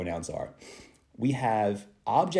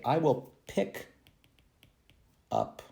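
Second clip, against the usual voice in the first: slow example; much slower than usual. Shown as a demonstration. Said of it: "I would say".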